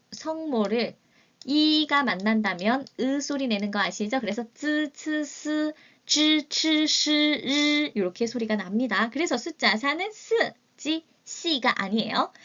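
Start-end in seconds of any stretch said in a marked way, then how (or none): 4.5-7.9 쯔 츠 스 said clipped and louder; model pronunciation. Shown as a demonstration. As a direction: run through 쯔, 츠, 스 crisply. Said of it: "demo of initials with i".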